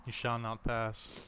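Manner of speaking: slow, soft wizard decree. Retold or imitated. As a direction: intone it like an old wizard. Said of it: "think it was Randolph the Wizard".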